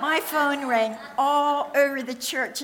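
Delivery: loud, laughing through the words; chuckling at the embarrassing memory; laughing while telling. Real, not acted. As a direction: laugh it out, amused at yourself. Laughing about the phone ringing in church.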